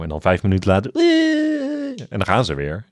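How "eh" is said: high-pitched drawn-out whining noise; mock whine. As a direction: imitate a crybaby's long high wail. Imitates character starting to whine again. (hoog, langgerekt nagedaan gejank)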